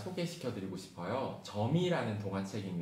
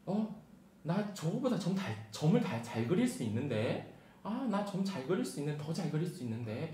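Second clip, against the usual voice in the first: put-on surprised child; 5 semitones higher than usual. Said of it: "이런 생각을 했습니다".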